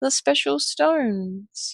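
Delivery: soft, high, really sad, mournful voice. Crouching at the edge of a chasm, looking over: really sad voice. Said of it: "say in a really sad voice".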